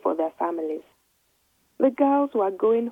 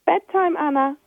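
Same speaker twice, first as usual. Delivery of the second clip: loud, high call across the garden; mother calling her daughter to bed, loud call; 8 semitones higher, 5 dB louder than usual. Acted. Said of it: "her mother called".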